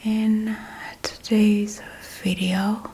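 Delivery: ASMR whisper. Real, not acted.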